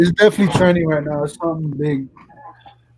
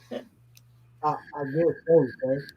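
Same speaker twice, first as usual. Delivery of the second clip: Forrest Gump; 4 semitones lower, 7 dB quieter than usual. Acted. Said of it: "Tony Montana meets Forrest Gump".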